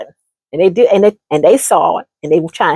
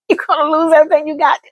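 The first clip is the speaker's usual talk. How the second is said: faster, slightly higher; repeated warning; 7 semitones higher, faster than usual. Acted. Repeating the warning to her friend, fast. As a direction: drive the warning home.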